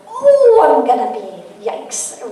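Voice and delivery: mock alarm at running late; acted-out dismay, tailing off into a small yikes; retold panic. Realizes she is running late.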